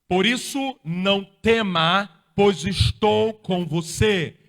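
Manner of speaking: slow, loud, commanding sermon delivery; preaching God's words. Acted. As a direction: proclaim each word slowly to the whole church.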